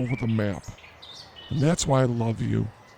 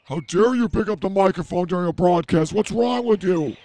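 hammed-up indignant scolding, louder; mock outrage; 6 semitones higher, 3 dB louder than usual. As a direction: play the offended host. Mock scolding caller on air.

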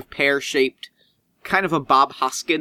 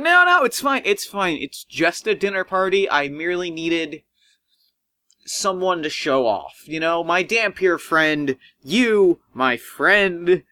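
dismissive Cook; 3 semitones higher than usual. Acted. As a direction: brush it off in a high fussy voice. Cook brushes the player off.

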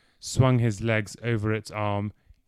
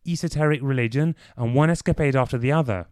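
mock impression of Clive, a little raised; parroting Clive back at him; mimicking Clive; 4 semitones higher, 4 dB louder, faster than usual. A friend mimics Clive to tease him, lightly mocking. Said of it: "the impersonations he had just managed".

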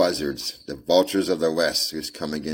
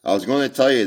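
put-on little girl; 8 semitones higher, 9 dB louder, faster than usual. Little girl voiced in story.

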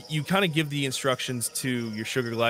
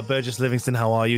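posh explorer voice. Acted. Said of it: "You're rocking this guy".

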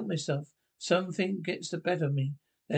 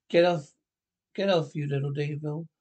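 shouting; 3 dB louder than usual. Acted. Fighting off an attacker.

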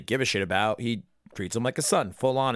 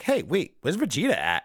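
mock confused question; 6 semitones higher than usual. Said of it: "And then you're like".

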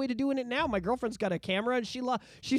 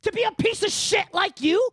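indignant outburst; 4 semitones higher, 4 dB louder than usual. Retold or imitated. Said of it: "It sounds like you're like".

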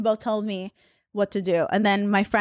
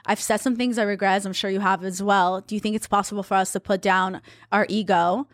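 measured, even retelling of a careful message; gently composed, feeling out each phrase; calm. Retold or imitated. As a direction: voice a calm, conciliatory text. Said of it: "text him really calmly".

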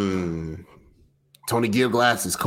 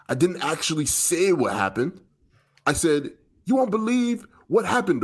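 put-on British accent. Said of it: "deliver this in a British accent for us".

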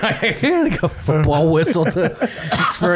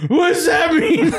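mock confused; 12 semitones higher, slower than usual. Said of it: "And you're like".

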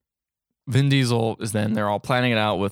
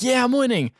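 mock triumph; 12 semitones higher than usual. Overconfident racer boasts mid-race, mock triumph. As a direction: crow it like a racer pulling ahead.

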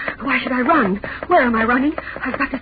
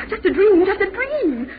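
hysterical laughing; 8 semitones higher than usual. Acted. Relieved hysteria in a nightmare.

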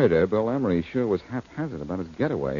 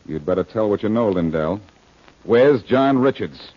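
pressing demand; 3 dB louder than usual. Acted. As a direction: lean on him, word by word. Detective presses suspect hard.

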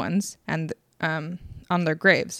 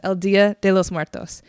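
"El Dia de los Muertos" said with more care; slowed-down retake. Real, not acted. Host correcting herself after rushing, measured and careful. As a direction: restart the name firmly and deliberately. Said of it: "I'm talking too fast".

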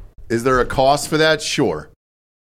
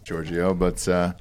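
ordinary talk, nothing marked

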